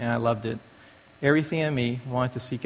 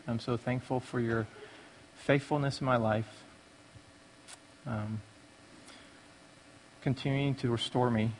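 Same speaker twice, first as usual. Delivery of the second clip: softer, humble spoken prayer with halting pauses; 6 dB quieter than usual. Real, not acted. Man thanking God before sharing his testimony, softly prayerful. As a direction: pray quietly, feeling for the next words.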